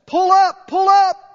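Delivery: high, loud alarm shout; shrieking alarm. Retold or imitated. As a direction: shriek it like a warning siren. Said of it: "which shrieks at us".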